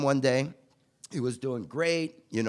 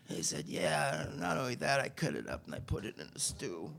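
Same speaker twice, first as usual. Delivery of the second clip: sheepish confession; 6 dB quieter than usual. Retold or imitated. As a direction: own up quietly, half hoping nobody hears.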